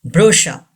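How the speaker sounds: brochure as "BRO-sha", no R at the end; brochure, stressed first, ending in "sha"; silent final R. Shown as a demonstration. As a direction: say brochure with CH as "sh" and drop the last R. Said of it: "R is not pronounced".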